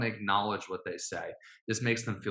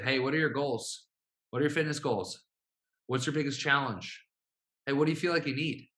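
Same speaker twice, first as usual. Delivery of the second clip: blunt, rapid-fire questions, a bit higher; abrupt questions; 3 semitones higher than usual. Shown as a demonstration. Coach showing how a blunt sales text sounds, abrupt. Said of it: "It's very abrupt".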